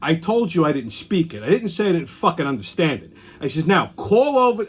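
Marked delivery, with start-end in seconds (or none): 0.0-1.4 irritated retort. Retold or imitated. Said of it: "So I said". 1.4-3.1 snapped at the clerk. Retold or imitated. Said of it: "So I said". 3.7-4.6 mock bark. Demanding clerk call other store.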